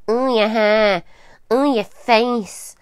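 drawn-out schoolyard jeer; mock bullying taunt. Acting out what someone may say to trigger a child, mildly taunting. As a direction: tease with stretched-out words. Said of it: "They may say".

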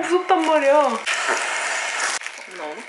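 high squeaky helium voice. Real, not acted. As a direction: talk right after sucking helium. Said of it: "이거 목소리 들으니까 진짜 웃기네".

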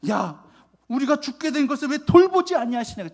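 high, loud, whiny complaint; irritated tone. Retold or imitated. Disciples complaining to Jesus in an irritated whine. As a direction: throw the complaint back at him, annoyed. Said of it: "짜증조로".

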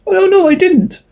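high, horrified denial; a lightly acted horrified cry. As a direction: gasp it out in horror. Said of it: "Fritz, horrified".

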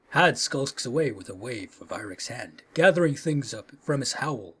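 low, soft storyteller's reading, sinking at the end; story narration. A narrator's reading. Player reading the bodyguard's looming to viewers, story narration. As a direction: narrate it quietly, letting it sink. Reads game narration aloud.

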